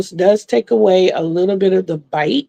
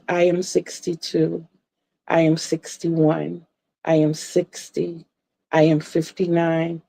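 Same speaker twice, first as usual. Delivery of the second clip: sleepy counting; 2 semitones lower, 6 dB quieter than usual. Retold or imitated. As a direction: count down as if drifting off. Counting her age backwards to sleep.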